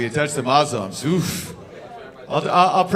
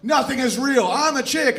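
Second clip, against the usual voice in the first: higher mocking voice; 9 semitones higher than usual. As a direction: parody with a lilt. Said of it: "Trans is like".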